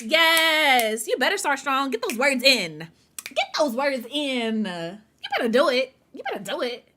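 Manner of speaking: loud, hyped cheering; excited cheer. Real, not acted. Streamer hyping a viewer's big word count, loud cheering. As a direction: cheer them on like a coach.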